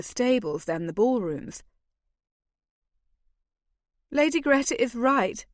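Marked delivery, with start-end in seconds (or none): 4.1-5.5 smiling, a little higher and brighter; light smiling reply; said with a smile. A narrator's reading. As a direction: let the smile come through the words. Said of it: "I said with a smile".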